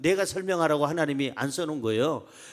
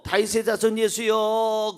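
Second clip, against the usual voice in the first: drawn-out call, only slightly raised; retold cry; 3 semitones higher than usual. Preacher retelling the blind man's call to Jesus, mildly cried out. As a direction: imitate a man calling out, stretching the words. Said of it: "소리 질렀어요".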